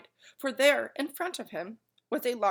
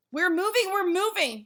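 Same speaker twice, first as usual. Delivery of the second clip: very high, loud joyful cry; happy shout; 11 semitones higher, 5 dB louder than usual. A narrator's reading. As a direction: cheer as the car moves. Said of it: "he shouted happily".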